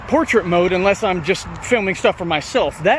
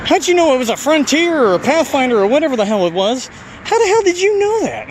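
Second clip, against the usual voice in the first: baffled, climbing higher toward the end; incredulous, rising to high pitch; 6 semitones higher than usual. Retold or imitated. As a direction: disbelief that builds and breaks high. Retold baffled questions to her.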